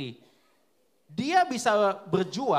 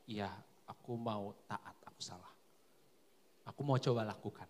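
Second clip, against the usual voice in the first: humble submission; 12 semitones lower, 12 dB quieter than usual. Retold or imitated. Soldier humbly admitting fault to commander, hushed. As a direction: answer your commander meekly. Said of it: "Ketika komandanku bilang salah".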